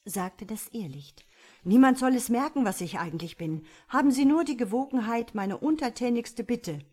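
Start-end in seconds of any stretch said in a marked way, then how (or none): 1.6-6.9 higher, louder pleading to a master; untertänige Bitte. A narrator's reading. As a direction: plead eagerly and obsequiously, pitched up. Irrlicht bittet den Teufel untertänig. (untertänig bittend, mit erhobener Stimme)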